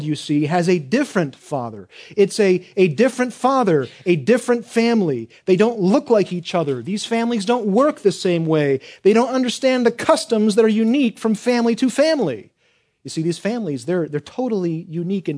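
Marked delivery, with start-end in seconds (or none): 2.2-12.5 forceful preaching. Real, not acted.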